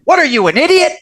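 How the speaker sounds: high-pitched mock mom insult; scornful mother. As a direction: imitate an incredulous, insulting mom. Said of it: "she called me an idiot".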